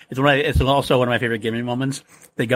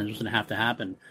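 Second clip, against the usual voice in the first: softer, repeated to himself; quiet repeat; 4 semitones lower, 9 dB quieter than usual. Retold or imitated. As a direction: drop the voice, half to yourself. Aragorn repeats the resolve to himself.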